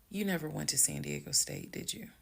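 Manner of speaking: composed challenge, tailing off softly; calm. Retold or imitated. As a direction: confront him without raising your voice. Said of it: "this is the tone I had".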